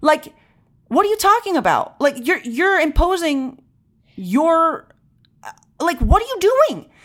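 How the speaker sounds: high, indignant retelling of a snapped reply; replaying the moment she lost patience; retold outrage. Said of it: "And I was like".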